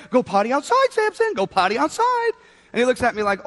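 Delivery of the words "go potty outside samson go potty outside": high-pitched call on the dog's name; higher voice. Retold or imitated. Owner back outside coaxing puppy, higher voice. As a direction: coax the dog, pitch climbing. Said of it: "and I said the phrase".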